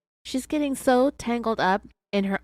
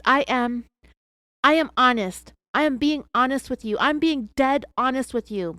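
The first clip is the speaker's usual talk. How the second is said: a touch louder, pleading insistence; wife keeps insisting she is honest; 4 semitones higher, 5 dB louder than usual. Retold or imitated. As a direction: insist on your honesty, rising. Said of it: "she continued to insist".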